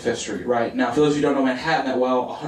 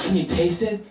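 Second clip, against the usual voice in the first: higher, rising question; coy food question; 4 semitones higher than usual. Retold or imitated. Dinner hosts ask about their secret healthy food, coyly. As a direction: ask it coyly, voice lifting at the end.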